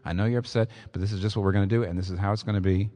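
mild, even-handed reassurance; calm insistence. Acted. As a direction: gently hold the line with an upset child. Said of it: "you just say very calmly".

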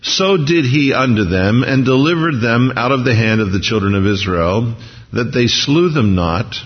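slow, measured Bible reading; scripture reading. A narrator's reading. Preacher reading Joshua to the congregation, measured reading. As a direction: read the verse out slowly, phrase by phrase.

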